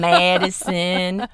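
slow drawn-out Georgia accent on Watkinsville. Shown as a demonstration. A Georgia native naming home towns in her Georgia accent. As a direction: drawl the town name like a Georgia local. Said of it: "I can do that accent".

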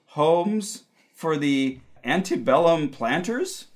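psychic hotline. Acted. Psychic reading continues.

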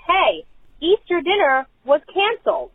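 lightly mimed holler; retold yell. Parent calling over to husband, retold yell. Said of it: "So I yell over to my husband".

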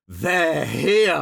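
put-on lone kid shouting that the skinheads have arrived; shouted alarm. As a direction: call out the news across the playground. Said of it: "he just shouted".

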